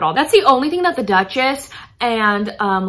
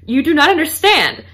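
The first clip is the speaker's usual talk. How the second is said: higher, louder gushing romantic friend; retold dreamy Charlotte; 4 semitones higher, 5 dB louder than usual. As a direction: gush lightly like a romance reader. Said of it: "She goes, Lady Charlotte".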